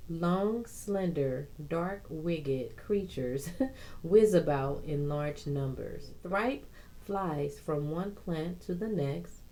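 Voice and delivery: measured informational read-aloud; steady reading from a guide. Real, not acted. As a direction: read it out from a plant-care book. Reads a plant guide aloud.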